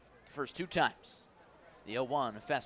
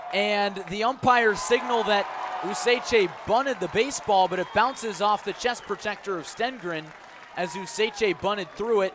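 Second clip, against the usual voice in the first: higher and much louder, building to a shout; breathless play-by-play shout; excited shouting call; 5 semitones higher, 7 dB louder than usual. Real, not acted. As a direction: call the wild squeeze play at full voice. Squeeze play chaos called live.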